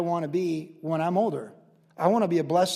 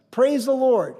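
raised, loud imitation of the resident; exuberant praise call; 6 semitones higher, 5 dB louder, slower than usual. Resident speaking blessings to diners, loud praise call.

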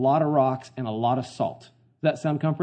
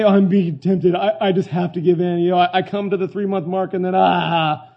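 louder, higher mocking voice of a believer giving in; mock whiny excuse; 3 semitones higher, 6 dB louder than usual. Preacher mocks the congregation's excuse in a louder, higher mock whine. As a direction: parody a believer who caves to temptation.

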